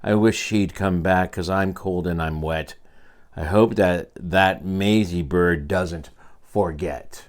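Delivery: lightly voiced glum elephant. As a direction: moan it like a cold wet elephant. Horton complaining, cold and wet.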